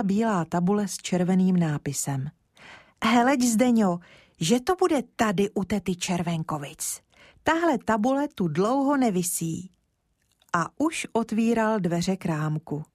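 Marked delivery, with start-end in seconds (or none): 3.0-9.7 put-on lightly raised childlike voice, eager; a small boy chattering hopefully to his friend; lightly voiced eager boy; eager little boy. Kája spots the sign.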